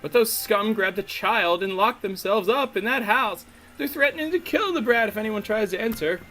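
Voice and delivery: hammed-up Southern-or-Cockney gossip; uncertain Southern-Cockney accent. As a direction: tell it indignantly in a wobbly Southern-Cockney accent. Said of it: "I don't know if she's Southern or British".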